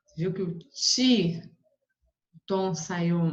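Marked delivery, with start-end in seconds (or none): 0.6-1.4 TI held out on its own; stressed syllable. Shown as a demonstration. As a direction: isolate TI and stretch it. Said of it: "até mais forte".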